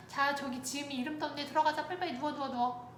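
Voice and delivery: re-enacted parent nudging a child to comply; coaxing mother. Mother urging child to lie down for dentist, coaxing.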